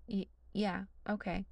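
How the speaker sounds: flustered, halting stammer; a mild stammered agreement. Acted. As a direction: trip over the words, rattled. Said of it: "Liam stammers".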